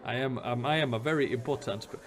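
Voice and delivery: halting attempt at a slipping Jamaican accent; lost character accent. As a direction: lose hold of the put-on Jamaican accent mid-line. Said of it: "I have completely lost his accent".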